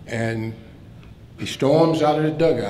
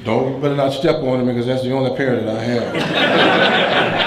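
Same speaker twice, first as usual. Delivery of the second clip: louder quote with laughter breaking in; laughing through it; 4 dB louder than usual. Retold or imitated. Zim warning the umpire about his teeth, laughing through the quote. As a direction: tell the punchline while cracking up.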